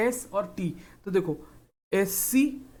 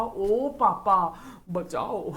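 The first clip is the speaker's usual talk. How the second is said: hammed-up cry for help; much slower than usual. Child calling papa for help.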